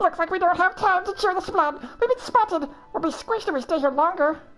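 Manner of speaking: squeaky, high-pitched voice. Reading a game character's line aloud, in a squeaky voice. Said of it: "Well, squeaky voice".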